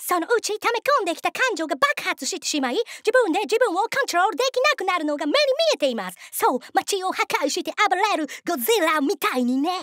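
high, insistent foreigner's Japanese; mounting mock-serious indictment; earnest foreign interrogator. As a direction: press the questions in lightly accented Japanese.

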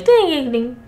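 high "ting" falling back down; imitated alert chime. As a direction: mimic a notification ding.

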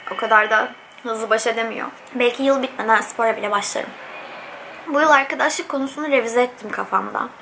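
talking while chewing; eating between words; mouth full. Real, not acted. Seen 1: Fork of food at lips, bite taken at 2.1s, chewing after.

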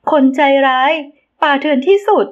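high, rising cries of outrage; shrieking accusation. A narrator's reading. Ramita shrieks at Thap for killing the animal. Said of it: "ระมิตากรีดเสียง".

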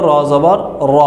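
র rounded, without aa; teacher models the Arabic র; Arabic pronunciation. Shown as a demonstration. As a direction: say a full র, not রা. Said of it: "জবর দিয়ে উচ্চারণ হলো".

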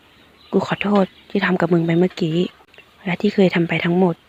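tender apology held softly and unhurried; serious but gentle. Acted. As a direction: confess it quietly, meaning every word. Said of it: "เอ่ยออกมาด้วยน้ำเสียงจริงจัง แต่นุ่มนวล".

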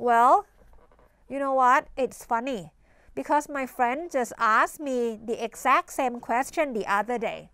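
unhurried demo of a chatty filler reply; slow model answer. Shown as a demonstration. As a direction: model a relaxed native reply, slowly. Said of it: "เราอาจจะบอก". (ครูพูดตัวอย่างช้าๆ สบายๆ)

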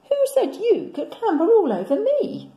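big booming lion voice, high and loud; indignant lion. Acted. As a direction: scold them like a put-out lion. Lion scolds children on him.

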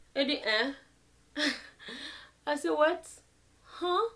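high, loud, half-laughing "what?"; shocked disbelief. Retold or imitated. Told she's cut off, she cries out in laughing disbelief. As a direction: laugh in shock, then shout the question.

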